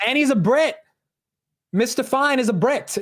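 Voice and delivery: high, lilting British accent put-on. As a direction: say it like a posh Brit. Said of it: "my British accent is better than my Indian accent".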